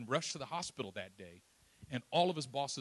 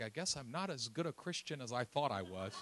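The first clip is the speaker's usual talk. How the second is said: rueful laughing; 2 semitones lower, 4 dB quieter than usual. Real, not acted. Rueful self-mockery.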